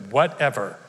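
"Whatever." with an eye-roll kind of disdain; disdainful whatever. Shown as a demonstration. Pastor demoing disdain on "Whatever.". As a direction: dismiss it with a hair flip. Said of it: "you have to say it with an eye roll and a hair flip".

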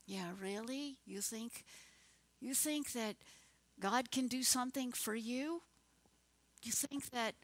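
understated sarcastic doubt; mock scornful. Preacher imitating scornful unbelievers doubting God, mildly sarcastic. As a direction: lightly mimic a skeptic's questioning. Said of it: "scorn and sarcasm is often unbelief".

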